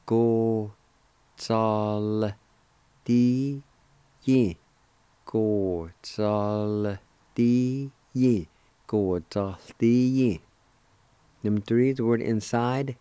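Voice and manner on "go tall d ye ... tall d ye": "Go, Tall, D, Ye" said one syllable at a time; syllable-by-syllable teaching drill. Shown as a demonstration. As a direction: chop "Go Tall D Ye" into separate beats. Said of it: "pronounce the L sound ... like this".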